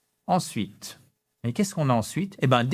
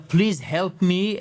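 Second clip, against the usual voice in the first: slow, pleading please help me; too dramatic plea; 5 semitones higher, much slower than usual. Shown as a demonstration. Teacher showing the wrong, overly dramatic plea. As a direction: beg as if in danger. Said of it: "là, ça sonne vraiment dramatique".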